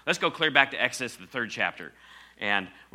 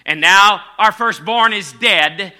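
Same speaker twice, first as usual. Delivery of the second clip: much louder, higher, slow anguished plea; anguished cry; 8 semitones higher, 13 dB louder than usual. Acted. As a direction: cry out the loss in mock despair. Egyptians despair over the firstborn.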